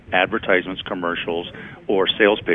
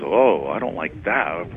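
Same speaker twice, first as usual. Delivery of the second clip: second ad voice; slower than usual. Retold or imitated. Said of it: "the second one goes".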